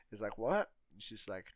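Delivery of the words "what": loud, high questioning "what?"; retold shouted query, pitched up; calling out. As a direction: shout back as if you didn't hear. Retold failing to hear.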